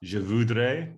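"Je voudrais" said fondly, French style; savoured French. Shown as a demonstration. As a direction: relish the French phrase. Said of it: "It just sounds so nice".

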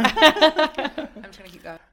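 talking through a mouthful; words round a bite of pizza; mouth full. Real, not acted. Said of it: "With a mouthful of pizza".

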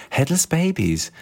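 high, slow, incredulous repeat; amused disbelief. Real, not acted. A reader reacts to the book's odd simile with surprised disbelief. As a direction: echo the phrase back, taken aback by it. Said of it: "That's a bit of a scary simile".

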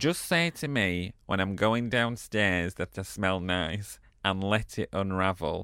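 low, soft, slow conspiratorial plan; husband quietly plotting on the landing; hushed scheming. Retold or imitated. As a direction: keep it down so mum can't hear.

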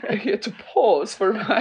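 suddenly British-sounding "pause"; accidental British accent. Real, not acted. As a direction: slip into a British accent, amused. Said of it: "I just turned British".

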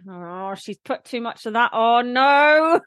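mock dismay, swelling into a long NO; imagined disapproval. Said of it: "imagine your eyes watching me like".

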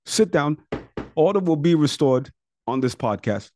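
a hint of Bernie scolding the co-host; Bernie Sanders impression. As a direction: play the old senator gaveling a rowdy hearing. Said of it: "I'm doing now my Bernie Sanders".

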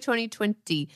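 "twenty twenty" said with relish and gusto; enthusiastic twenty twenty. Real, not acted. Reading a listener letter, she relishes saying "twenty twenty". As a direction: savour "twenty twenty" like a favourite catchphrase. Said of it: "I just really enjoy saying it like that".

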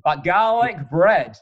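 slow, drawn-out northern "garlic bread"; mild Bolton drawl on "garlic bread"; Peter Kay garlic bread. Retold or imitated. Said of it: "the way Peter Kay said that word".

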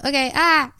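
normal talking voice

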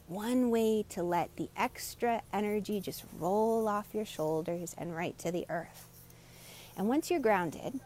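calm, unhurried meditation guide voice; guided meditation. Acted. Leads a meditation.

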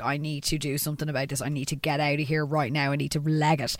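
softly voiced urgent inner thought; hushed, understated distress, as if thinking aloud; retold distraught. Recapping Rosalind's wish to get out, understated distraught. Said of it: "looking distraught".

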